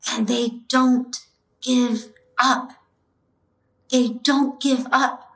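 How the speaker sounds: slow, choked-up emphasis with gaps between words; really moved, getting through it a few words at a time; emotional. Real, not acted. Telling of jailed suffragettes being force-fed, slow and emotional. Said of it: "Sorry, I get a little emotional".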